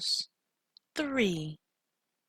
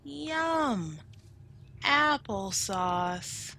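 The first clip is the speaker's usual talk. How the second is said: everyone delighted; 3 semitones higher, 4 dB louder, much slower than usual. Acted. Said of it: "They all said".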